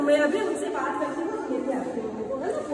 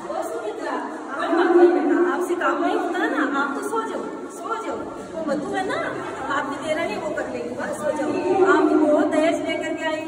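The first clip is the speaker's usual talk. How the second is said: laughing, louder sarcastic pampering; mock coddling; 5 dB louder than usual. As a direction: tease the elder daughter-in-law with a laugh. (हँसते हुए तंज़ भरा लाड़)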